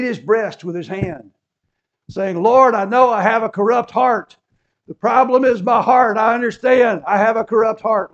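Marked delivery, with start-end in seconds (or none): 2.4-8.1 higher, much louder anguished plea; crying out. Retold or imitated. Repentant tax collector crying out to the Lord. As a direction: cry out to God from the gut. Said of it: "he cried out to God".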